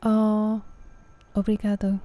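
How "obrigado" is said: obrigado said with English vowels, o-bree-GAH-doh; a Brit's careful attempt at obrigado; British-sounding Portuguese. Real, not acted. Thanking Douglas in Portuguese, English-accented obrigado. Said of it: "I don't think I said that right".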